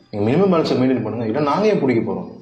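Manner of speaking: loud, impatient bank clerk. Acted. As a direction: raise your voice to shut the customer down. Bank officer loses patience with customer.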